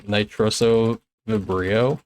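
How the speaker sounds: "Nitroso Vibrio" sounded out slowly, syllable by syllable, rising at the end; careful full name. Shown as a demonstration. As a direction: spell out "Nitroso Vibrio" slowly, like a first try. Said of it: "I'll try saying the whole thing".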